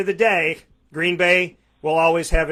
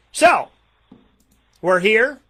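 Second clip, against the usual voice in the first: sudden outburst; 4 semitones higher, 6 dB louder, slower than usual. Real, not acted. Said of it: "I'm sorry. I had to".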